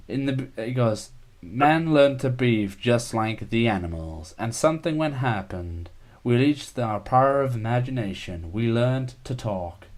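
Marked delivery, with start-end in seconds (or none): 1.4-9.9 Stephen Hawking voice. Retold or imitated. Quoting the voice on a band's song, lightly robotic. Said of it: "Stephen Hawking go in the robotic voice".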